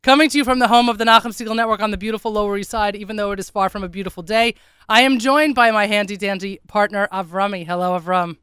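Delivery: smoker's rasp; husky rough voice; hoarse voice. Real, not acted. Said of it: "you could lay off the cigarettes".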